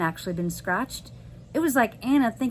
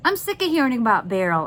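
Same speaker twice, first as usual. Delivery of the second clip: a bit louder, frustrated outburst; mild yell; 3 semitones higher, 4 dB louder, faster than usual. Acted. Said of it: "I yelled".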